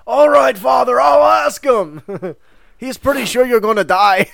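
hammed-up madman shouting to God. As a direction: yell up at the sky for an answer. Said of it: "He goes".

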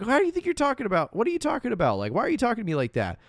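high, hurried mock protest; freaking out. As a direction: act out someone losing it, pitch way up. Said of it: "he starts freaking out".

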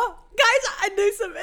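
high, loud burst of triumph; thrilled shout. Real, not acted. Contestant to co-hosts after a right answer, thrilled shout. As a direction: shriek it, amazed to have known it.

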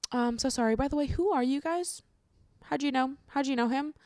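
high, lightly imitated tactless mourner; nosy condolence-giver. Wake guest asking the grandkids who they are, mock-polite prying.

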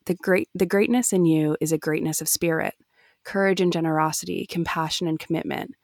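a touch of gentleness, slowing at the end; gentle. Acted. Obi-Wan praising Anakin's heart, said gently. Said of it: "Obi-Wan said gently".

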